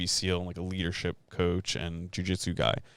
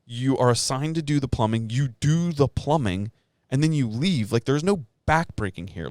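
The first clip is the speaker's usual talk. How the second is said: retold heated rant; 4 semitones higher, 4 dB louder than usual.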